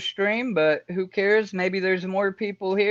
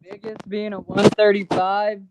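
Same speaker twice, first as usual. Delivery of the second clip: said up louder to be heard; louder repeat. Real, not acted. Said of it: "Can't hear you".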